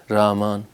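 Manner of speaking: رامان with the ح dropped, said as a plain long a; wrong pronunciation. Shown as a demonstration. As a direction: show the common mistake of dropping the ح. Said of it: "رحمان میں ہا میں الف کا بھی امکان ہے".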